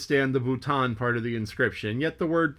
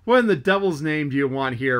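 angry, louder roar; fly into a passion; mate roaring at a teasing visitor; 2 semitones higher, 6 dB louder than usual. Acted. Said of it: "roared the Guernseyman".

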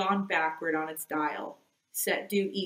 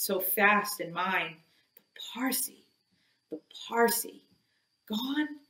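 brooding Ahab muttering; 3 semitones higher than usual. Acted. Captain alone after the men go forward, brooding and muttering. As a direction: talk yourself through the riddle, half under your breath. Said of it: "he muttered on".

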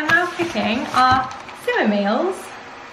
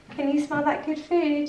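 higher-pitched pet talk; 4 semitones higher, 3 dB quieter than usual. Real, not acted. Owner asking the dog about food, higher pet talk. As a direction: ask a pet in a raised coaxing voice.

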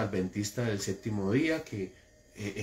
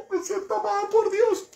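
very high, laughing swoon; mock-blissful believer voice; mocking gullible believer. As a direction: ham up a dazzled believer. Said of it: "Y usted".

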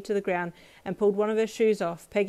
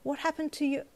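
alarmed mother; 8 semitones higher than usual. A narrator's reading. Alarmed mother questions child.

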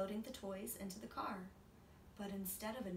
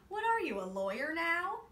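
high, loud disbelief; incredulous mom; 9 semitones higher, 7 dB louder than usual. A narrator's reading. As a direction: tease the haggling son. Mom teasing son.

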